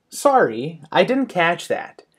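"Sorry" rising high, "didn't" lifted then falling on "that"; apologetic questioning intonation. Shown as a demonstration. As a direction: lift "Sorry" like a question, then drop through "catch that". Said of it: "intonation is very important".

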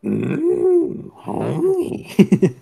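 a hint of a woman's voice; female voice. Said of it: "the one female voice you can do".

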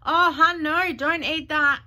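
high, loud, slow patronising tut; mocking a commenter. Mimicking a commenter scolding her food, high loud patronising. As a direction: talk down like a preachy fitness friend. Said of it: "this lady goes".

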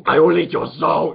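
demonic voice. Retold or imitated. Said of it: "Really demonic".

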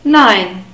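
Nein with the diphthong of English "eye"; EI as long I. Shown as a demonstration. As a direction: say Nein to rhyme with "nine". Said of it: "but we pronounce it I".

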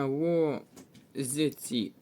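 "ло, з, ці" in separate pieces, з in place of ж; assimilated consonant, broken up. Shown as a demonstration. Teacher showing assimilation to pupils, "ло, з, ці" piece by piece with з. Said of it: "Тут буде уподібнення".

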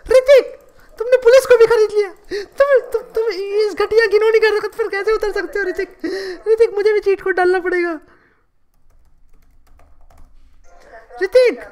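lightly put-on dramatic actress voice; Kangana Ranaut impression. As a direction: play a wronged film star pleading her case. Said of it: "मेरा नाम है कंगना रनावत".

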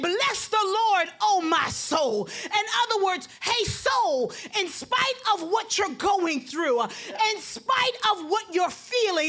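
preaching at full force. Acted. Pastor rousing the congregation, building to a shout.

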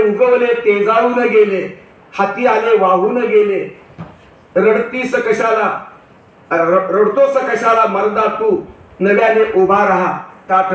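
slow, measured verse reading; deliberate recital of a quoted poem; poem recitation. Acted. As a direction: recite the verse line by line, drawing out the words.

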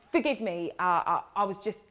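low, hesitant stammered excuse; faltering apology. Acted. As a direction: stumble apologetically over the words, voice dropped.

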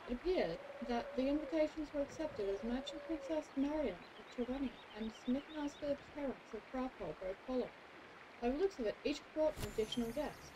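measured storybook narrator; story narration. A narrator's reading. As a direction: read the tale aloud like a chronicler.

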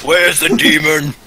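shouted demand. Acted. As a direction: demand it loudly, drawing out each word. Player's character demands answer of villager.

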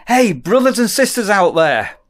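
mock greeting. Shown as a demonstration. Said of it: "should I start saying".

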